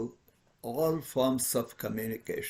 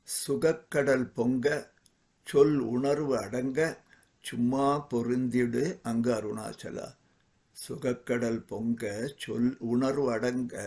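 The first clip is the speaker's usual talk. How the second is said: fast, rhythmic recital of the Tamil verse; Tamil verse recitation; much faster than usual. Acted. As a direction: rattle off the verse as a chant.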